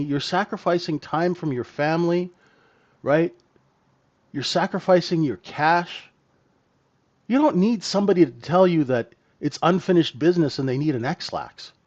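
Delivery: normal talking voice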